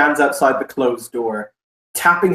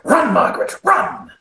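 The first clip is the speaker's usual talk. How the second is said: high, urgent mock cry; urgent command; 12 semitones higher than usual. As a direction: send her running with a high call. Character orders frightened receptionist to run.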